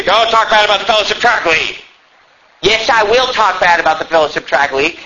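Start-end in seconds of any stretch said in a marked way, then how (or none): 0.0-1.8 lightly voiced complaining objector; a touch of mock protest. Imagined listener defending the Tract League, mild mock protest. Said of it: "You say".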